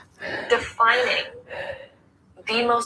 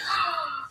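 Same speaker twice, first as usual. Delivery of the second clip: mock gasp; 8 semitones higher than usual. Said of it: "my critical voice is just like".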